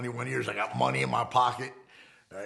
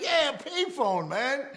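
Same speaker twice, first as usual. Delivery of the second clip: much higher, slow stretched yeah payphone; incredulous insistence; 4 dB louder, much slower than usual. Retold or imitated. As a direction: drag it out like it's obvious. Insisting to the puzzled driver.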